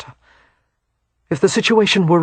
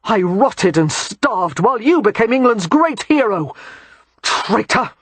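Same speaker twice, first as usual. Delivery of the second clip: enraged soldier shouting; 4 semitones higher than usual. Acted. Bennett accuses Christopher, gun drawn.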